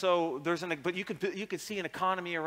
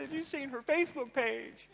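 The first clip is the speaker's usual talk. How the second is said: much higher, loud indignant comeback; incredulous retort; 12 semitones higher, 5 dB louder than usual. Retold or imitated. Retorting to Microsoft Legal, high indignant shout. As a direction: fire it back, high and loud. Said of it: "And I said".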